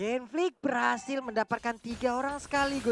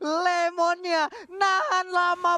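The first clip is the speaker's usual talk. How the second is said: amazed; 6 semitones higher, 4 dB louder, slower than usual. Real, not acted. Caster amazed by tank play.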